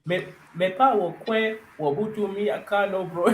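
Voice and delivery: mock Ghanaian phrase. Mock Ghanaian, showing how the language sounds. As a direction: imitate Ghanaian sounds playfully. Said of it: "how literally the language sounds".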